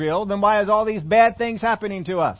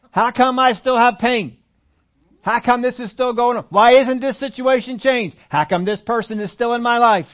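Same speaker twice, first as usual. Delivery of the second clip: louder, higher pleading complaint; mock complaining; 3 semitones higher, 6 dB louder than usual. Preacher voicing the congregation's complaints to God, whining. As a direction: nag God with every grievance.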